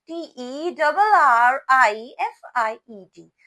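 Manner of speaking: loud, letter-by-letter spelling; spelling for repetition. Shown as a demonstration. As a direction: spell it out so the class can repeat. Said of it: "Repeat after me".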